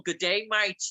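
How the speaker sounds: light Australian good day greeting; Australian accent. Retold or imitated. Host showing what the Australian accent sounds like, lightly Australian. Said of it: "the Australian one is like more".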